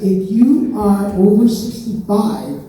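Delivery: slow, deliberate reading of fine print; reading the booklet. Retold or imitated. Comic reading the citizenship booklet rule slowly. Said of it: "it says".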